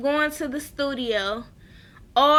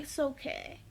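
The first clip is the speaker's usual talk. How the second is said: very quiet, retold comforting words; hushed mock consoling; soft reassurance; 14 dB quieter than usual. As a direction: soothe gently, under your voice. Voices visitor comforting the patient.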